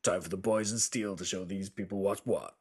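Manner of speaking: deep, booming trailer announcer; fighting game announcer. Pretend. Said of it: "How'd you like my announcer voice?".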